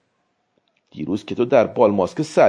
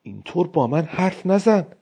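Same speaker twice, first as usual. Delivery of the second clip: higher mock-petulant outburst; sulky wife snapping, higher; wife cuts off the narrator, higher petulant cry; peevish outcry; 5 semitones higher than usual. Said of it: "ناگهان بدخلق شد و فریاد زد".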